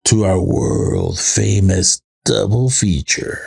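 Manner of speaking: lightly creepy, slow, drawn-out announcement. Pretend. Host introduces the double feature, in a playful creepy voice. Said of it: "I said it in a creepy voice".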